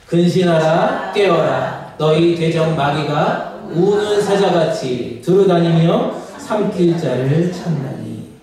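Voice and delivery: slow, measured reading aloud; congregational scripture reading. Real, not acted. Preacher leads congregation through a verse, slow unison reading. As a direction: read the verse slowly for all to follow.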